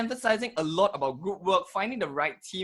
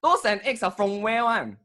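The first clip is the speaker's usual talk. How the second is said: Singlish. Pretend. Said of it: "let's exchange a few sentences in Singlish".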